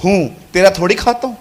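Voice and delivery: lovingly. Retold or imitated. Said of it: "मैं सीधा आपको प्यार से बोलूंगा".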